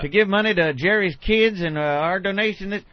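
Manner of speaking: chipper corporate pitchman voice; corporate spokesman. Retold or imitated. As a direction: play an upbeat company rep. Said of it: "every year they got the".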